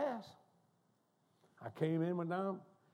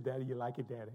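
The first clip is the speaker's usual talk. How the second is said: eager bubbly questioning; lightly bubbly retold question; imitating bubbly daughter; 5 dB louder than usual. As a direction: mimic a daughter fishing eagerly for dad's approval. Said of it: "she's all bubbly".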